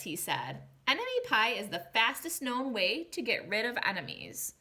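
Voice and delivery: storybook read-aloud to a class; gentle storybook telling for young listeners; reading to children. A narrator's reading. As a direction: read it like a picture book to kids.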